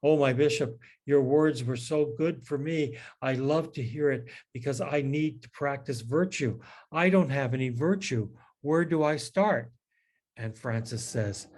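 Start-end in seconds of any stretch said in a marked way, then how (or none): 0.0-9.7 put-on eager young priest. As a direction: play the keen young priest asking for help. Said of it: "one of the young priests comes up to him and he says".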